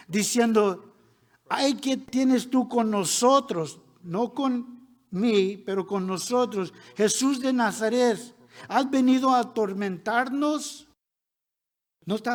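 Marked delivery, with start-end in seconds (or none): 1.5-3.8 raised, drawn-out outcry of an unclean spirit; crying out. Acted. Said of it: "que dio voces". 7.0-10.9 loud, higher-pitched challenge of a spirit; crying out. Acted. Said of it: "que dio voces".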